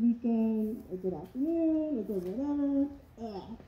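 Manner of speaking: muffled behind rubber mask; speaking inside full face mask; through a gas mask. Real, not acted. Seen 2: full rubber gas mask covers face while speaking, removed by 7.6.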